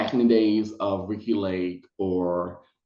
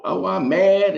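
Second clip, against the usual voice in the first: higher, louder mock outburst; mock anger; 9 semitones higher, 5 dB louder, slower than usual. Producers wanted the guest angry, mock anger. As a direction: act out a mild show of being mad. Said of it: "they wanted me to be angry".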